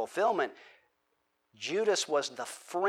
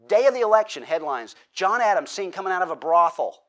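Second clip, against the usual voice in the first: mock headline shout; 3 semitones higher, 7 dB louder than usual. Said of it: "they said".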